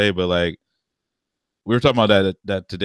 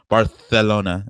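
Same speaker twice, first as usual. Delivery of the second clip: Spanish lisp; slower than usual. Retold or imitated. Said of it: "with the T H".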